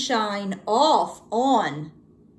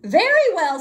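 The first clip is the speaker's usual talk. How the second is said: louder, higher reluctant agreement; mild mock elephant giving in; 8 semitones higher, 5 dB louder than usual. A narrator's reading. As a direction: give in with a sigh of duty. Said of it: "said the elephant".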